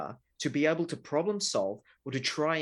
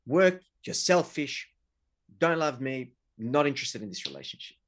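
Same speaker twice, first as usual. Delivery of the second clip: hard disclosure; 3 dB louder than usual. Retold or imitated. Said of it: "that initial hard disclosure".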